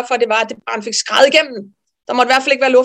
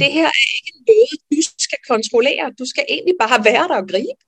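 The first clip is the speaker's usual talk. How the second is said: moved, near tears; 5 semitones higher than usual. Retold or imitated. Realisation repeated, emotional.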